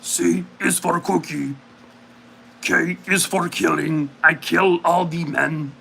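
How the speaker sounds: slow, lightly voiced monster; a hint of Cookie Monster, slow; mild slow monster voice. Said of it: "Or Cookie Monster".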